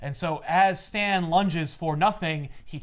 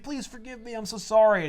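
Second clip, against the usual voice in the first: mock crying apology; 5 semitones higher than usual. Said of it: "And then he starts crying".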